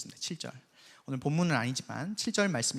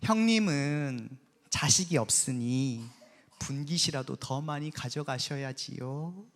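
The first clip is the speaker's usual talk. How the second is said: slow, sugary, needling politeness; mock sweet sarcasm; slower than usual. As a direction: drip fake courtesy while twisting the knife. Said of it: "이랬을 것 같아요".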